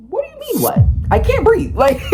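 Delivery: high squealing mock disbelief, laughing through it; mocking laughter. Mimicking officers mocking her through laughs. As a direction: cackle the cops' fake surprise.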